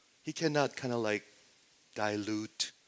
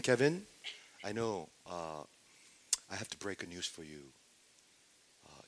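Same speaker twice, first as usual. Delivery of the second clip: soft, low, careful doctor's voice; hesitate, then break it quietly and reassuringly; gentle bad news; 3 semitones lower, 9 dB quieter than usual. Pretend doctor tells Kevin he has cancer, gently hushed.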